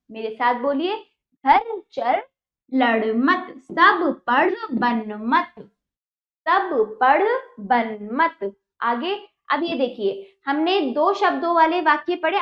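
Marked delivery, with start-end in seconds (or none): 1.4-8.5 slow, stretched words, evenly spaced; read-along drill. Shown as a demonstration. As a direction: lead beginners word by word. (धीमे, शब्द खींचकर साथ पढ़वाना)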